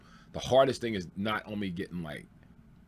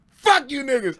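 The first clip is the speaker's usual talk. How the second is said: higher, louder playful parroting of the line; mock quote as a joke; 8 dB louder than usual. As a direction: toss the old line back as a prank. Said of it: "He goes".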